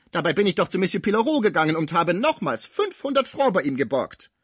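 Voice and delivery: spiteful shrill outburst. A narrator's reading. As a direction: spit the words like pistol shots. Cibot keeps raging at them.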